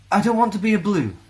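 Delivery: high, loud nervous outburst; blurted out. A narrator's reading. Nervous Alessa blurting to her teacher. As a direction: force the words out in a rush. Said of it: "managed to blurt out".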